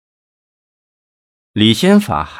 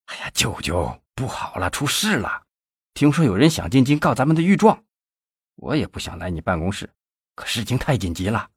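softer, hurried and out of breath; breathless; 2 semitones higher, 4 dB quieter than usual. Acted. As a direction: gasp it out in a rush. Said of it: "气喘吁吁地嚷道".

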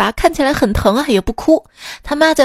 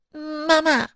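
学女儿撒娇; 3 semitones higher than usual. Retold or imitated. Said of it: "她说".

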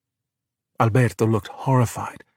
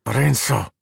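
hissed through gritted teeth. Acted. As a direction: say his name with jaw clenched. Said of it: "Daniela said through gritted teeth".

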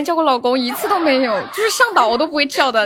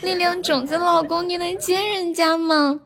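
撒娇十连. Pretend. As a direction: sweetly coax each husband, half-joking. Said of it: "撒娇十连". (撒娇的语气，拖长尾音)

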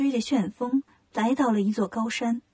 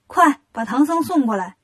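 mildly raised commanding call; demoness calling out; 4 dB louder than usual. Acted. Demoness orders underlings to fetch the monk, calling out. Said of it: "这时候女妖喊".

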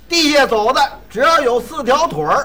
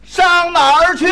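shouting to a deaf man; 6 semitones higher, 3 dB louder than usual. Acted. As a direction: call out so the old man hears. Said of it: "说话大点声儿".

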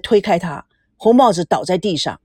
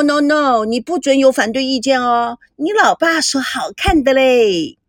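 lightly voiced showy woman, self-admiring; 3 semitones higher than usual. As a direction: show off with a lilting, stretched delivery. (略带炫耀、拖着尾音的女人腔)

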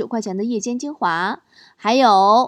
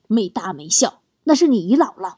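mock-cold mother-in-law; cold rebuke; 3 semitones lower than usual. Mother-in-law correcting son-in-law about the little girl, mock-cold rebuke. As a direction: imitate a chilly telling-off, starting lower. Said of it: "丈母娘旁边冷冷地说".

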